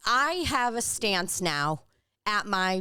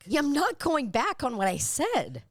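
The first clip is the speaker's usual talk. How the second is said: mock defiance; 8 semitones higher than usual.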